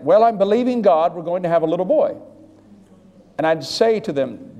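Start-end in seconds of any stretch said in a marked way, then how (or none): 0.0-2.2 pregnant woman quoted. Retold or imitated. Pregnant women telling the preacher, bright mock confidence. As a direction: chirp it like a hopeful mother-to-be. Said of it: "women come up to me".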